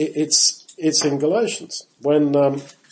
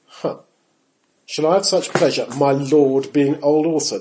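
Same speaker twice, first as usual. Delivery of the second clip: scoffing mock-sarcastic Sarah, opening on a "huh". Sarah thinking to herself about her old husband, sarcastic. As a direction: voice a wry, doubting inner thought. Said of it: "That is sarcasm".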